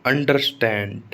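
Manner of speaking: अंडरस्टैंड with the last part, STAND, stressed. Shown as a demonstration. Teacher showing verb stress, weight on the second part. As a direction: lean on STAND at the end of अंडरस्टैंड. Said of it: "अब verb पे कैसे आता है".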